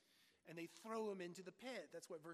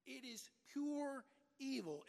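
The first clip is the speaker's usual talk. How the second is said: slow, higher and louder on pure evil; emphatic condemnation; 5 semitones higher, 4 dB louder, slower than usual. Acted. Preacher denouncing the brothers to the congregation, emphatic. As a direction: pound the words pure evil home.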